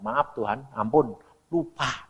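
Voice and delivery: soft, low plea for pardon; slowing, subdued mock repentance; sheepish apology. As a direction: apologize to God under your voice. Acts out apology to God.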